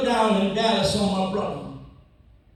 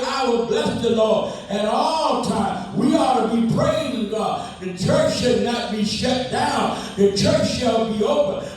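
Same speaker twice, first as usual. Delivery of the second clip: preaching at full force. Acted. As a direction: preach it out to the congregation.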